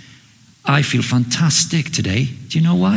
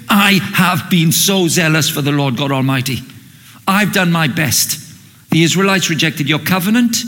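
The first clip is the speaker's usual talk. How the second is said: mock frustrated complaint; 2 semitones higher than usual. Churchgoer inwardly ranting at God, rising to angry outburst. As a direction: whine your grievances to God until it bursts out. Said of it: "And inside you're going".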